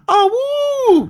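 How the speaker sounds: wolf howl. Acted. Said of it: "with a wolf howl that goes".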